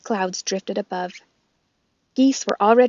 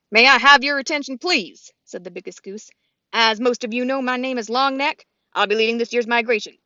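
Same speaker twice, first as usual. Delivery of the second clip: leader goose voice; 3 semitones higher, 4 dB louder than usual. Acted. Longneck leads the flock.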